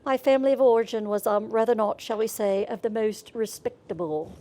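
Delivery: lightly put-on British accent, quick start. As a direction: play a posh British dog gossiping. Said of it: "speaking to them in a British accent".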